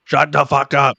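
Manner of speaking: put-on sleepy teammate yelling down at the guys, in a Russian accent. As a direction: do a roommate's thick Russian accent telling you to shut up. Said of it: "in his big Russian accent".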